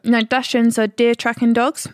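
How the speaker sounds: talking through a mouthful of chocolate; eating chocolate. Real, not acted. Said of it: "If I'm speaking weird, it's 'cause I got chocolate in my mouth still".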